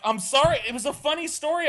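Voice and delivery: very high, quick squeaky excuse; cornered boyfriend's high apology; high sheepish apology. Retold or imitated. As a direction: squeak out a meek sorry. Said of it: "And I was like".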